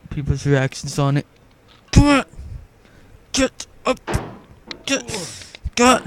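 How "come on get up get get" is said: higher, pleading shouts at the game; frantic urging. Real, not acted. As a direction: come on, get up, willing it through. Gamer urging his character.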